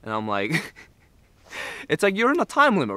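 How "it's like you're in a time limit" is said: panicked. Retold or imitated. Panicked inner voice in trip.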